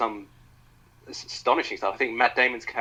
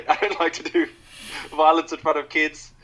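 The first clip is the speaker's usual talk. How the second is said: higher, louder South African villain; South African accent; 7 semitones higher, 5 dB louder than usual. Retold or imitated. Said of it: "I shouldn't do the South African accent".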